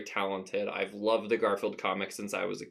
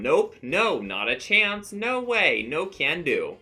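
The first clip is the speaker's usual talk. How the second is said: body's voice; 7 semitones higher, 5 dB louder, slower than usual. Acted. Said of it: "his body is telling him".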